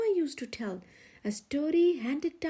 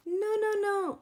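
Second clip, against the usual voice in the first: exasperated no; 6 semitones higher, 3 dB louder than usual. A narrator's reading. Rooster stops Iguana's mistake.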